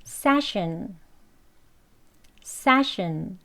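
session with stress on se; model pronunciation. Shown as a demonstration. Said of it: "기간이란 뜻의 단어입니다".

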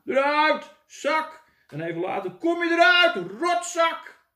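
loud high cursing yell; angry shouting. Acted. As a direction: curse the box furiously. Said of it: "hoorde uit het raam". (de melkboer scheldt luid door het raam)

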